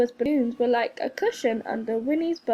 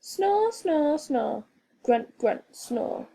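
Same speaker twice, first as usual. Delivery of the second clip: snoring; 3 semitones higher, slower than usual. A narrator's reading. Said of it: "she was snoring too".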